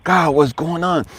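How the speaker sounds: soft plea rising gradually; mildly acted weary crying out to God; tearful prayer retold. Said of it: "I'm just talking to God".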